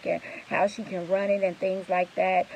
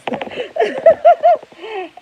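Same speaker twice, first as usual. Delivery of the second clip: high, loud burst of rueful laughter; bitter laugh; 8 dB louder than usual. Real, not acted. Venting about angry clients, breaking into rueful laughter. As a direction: laugh it off, half in disbelief.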